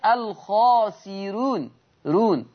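slow model of "الخاسرون", un-emphatic ra; thinned ra. Shown as a demonstration. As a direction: draw out "الخاسرون" with a light ra. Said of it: "خلي بالكم من صوت الراء".

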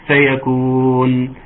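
tajweed recitation. Shown as a demonstration. Recites verse ending slowly.

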